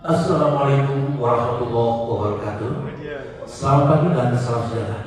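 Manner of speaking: steady, dignified formal greeting; a hint of a formal event host. Shown as a demonstration. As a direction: greet the room like an official emcee. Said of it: "Itu M C formal".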